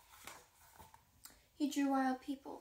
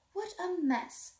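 exasperated cry; 6 semitones higher, 4 dB louder, slower than usual. A narrator's reading. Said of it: "cried Mother Lion".

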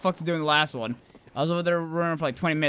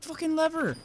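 put-on higher-pitched, exasperated Scottish accent; 8 semitones higher than usual. Gamer hunting for a lever, amateur Scottish accent. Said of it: "why I went with my Scottish accent".

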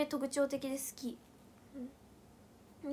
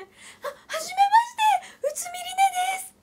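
very high, fast squeak; imitating Rine; 7 dB louder, much faster than usual. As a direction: squeak it out quickly. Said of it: "こんなんじゃない".

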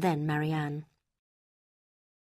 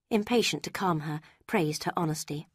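ordinary delivery

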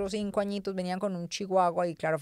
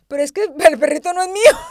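higher, louder imitation of a child; whiny kid excusing herself; mock little girl protest; child's excuse; 8 semitones higher, 12 dB louder than usual. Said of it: "mira lo que me dijo".

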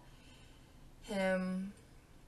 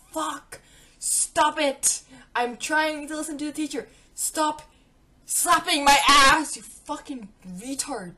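higher and much louder angry yell; furious shout; 5 semitones higher, 8 dB louder than usual. Retold or imitated. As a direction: blast him to make him stop. Yelling at him in class.

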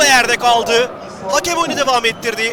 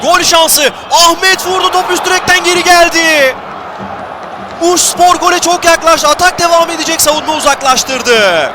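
higher and louder, urgent call; excited commentator; 5 semitones higher, 4 dB louder than usual. Real, not acted. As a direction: call the near miss with urgency. Shot hits the crossbar. (heyecanlı spiker)

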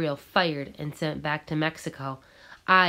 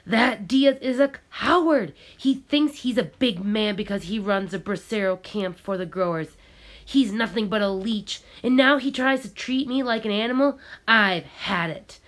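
indignant rant, higher and louder at first; angry; 5 semitones higher, 4 dB louder than usual. Acted. Gabriel rants about Diaz to the boy, angry and indignant. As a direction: spit out his contempt for the boss. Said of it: "said angrily".

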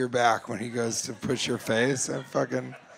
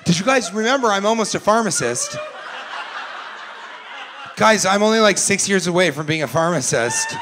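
a touch higher, laughing brag; mock bragging son, half-laughing; impression of the son; 4 semitones higher than usual. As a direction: lightly play the proud almost-pharmacist. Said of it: "That's my impression of your family".

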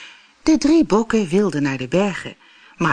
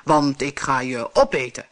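monster roar; 3 semitones lower than usual. Acted. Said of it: "brulde het monster".

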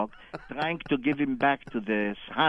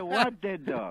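puzzled question; 4 semitones higher, 4 dB quieter, slower than usual. Retold or imitated. Feigns ignorance, first take.

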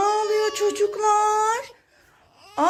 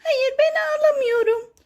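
lightly voiced toy, pitched up; Zeynoş; 5 semitones higher than usual. Toy answering whether it is the one crying, lightly voiced higher. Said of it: "Aa, Zeynoş, sen mi ağlıyorsun yoksa?".

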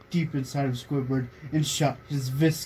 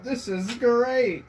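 mock moan; 8 semitones higher, slower than usual. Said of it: "do the laugh properly".

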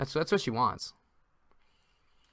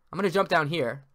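ordinary talk

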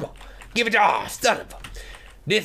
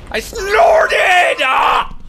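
even louder and higher, near tears with laughter; crying with laughter; 11 semitones higher, 10 dB louder, much slower than usual. Real, not acted. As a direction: let the yell crack into a laughing cry. Laughing at own snort.

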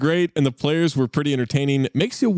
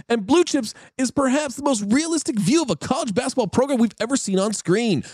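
lightly hyped bro voice, higher; bro reviewer voice; 5 semitones higher than usual. Pretend. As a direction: read it like a pumped bro. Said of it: "I'll do the voice".

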